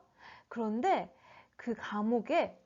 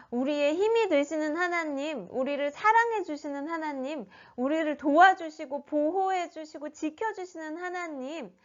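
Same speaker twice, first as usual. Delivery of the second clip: acted prayer, higher in pitch; praying; 4 semitones higher than usual. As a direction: plead to God as in prayer. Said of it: "이렇게 기도했겠죠". (기도하는 말투)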